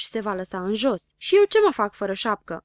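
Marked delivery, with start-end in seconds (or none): 1.2-2.6 loud, upset question. A narrator's reading. Zăpăcilă left without his cap, upset. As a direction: complain about the missing cap. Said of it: "întrebă supărat Zăpăcilă".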